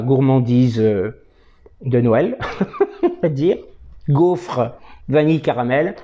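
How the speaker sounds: talking around pipe stem; pipe in mouth. Real, not acted. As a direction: lips gripping pipe. Seen 5: Pipe stem between lips for most frames; briefly removed around 4.1s.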